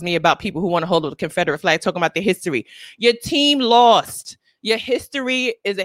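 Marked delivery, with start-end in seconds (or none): none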